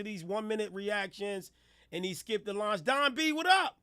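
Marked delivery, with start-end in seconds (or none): 2.8-3.8 higher, bright hype call; excited greeting. Real, not acted. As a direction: greet him like a surprise.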